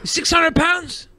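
high, slow mock question; imitated incredulous stranger. Stranger guessing a customer's weight, imitated incredulity. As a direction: draw it out high in mock disbelief.

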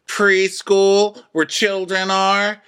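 high, loud, slow mock reply; high mock answer. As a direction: squeak it out as a dumb guess.

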